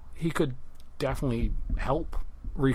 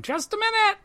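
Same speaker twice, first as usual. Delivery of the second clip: high, loud call from another room; calling from the back; 5 dB louder than usual. Acted. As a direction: shout it from the back of the shop. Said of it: "You hear a cry from the back going".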